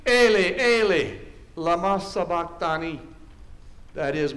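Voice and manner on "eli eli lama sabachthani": loud, higher-pitched cry of Scripture, easing at the end. Acted. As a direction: cry it out, then ease off. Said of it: "cried out in a loud voice".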